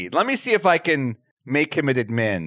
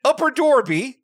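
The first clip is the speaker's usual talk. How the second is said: higher put-on Philly vowels; mock Philly accent; 7 semitones higher than usual. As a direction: say Dorby in a hammed-up Philly accent. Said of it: "she does a Philly accent".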